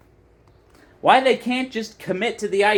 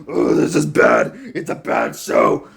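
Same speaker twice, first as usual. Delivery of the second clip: whiny fan parody. Retold or imitated. Mocking online fans who whine about a show, whiny parody voice. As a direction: sneer it like an online complainer. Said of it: "being like".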